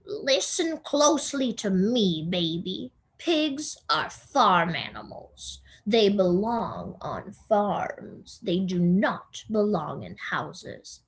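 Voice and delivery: a lightly voiced bossy older sister; Eugenia's stern lecture. Older sister lecturing the younger one, bossy and firm. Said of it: "Eugenia often says".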